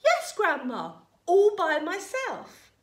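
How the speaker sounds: put-on boy's voice, loud and high; loud insistence. A narrator's reading. George confirming to Grandma on the roof, loud insistence.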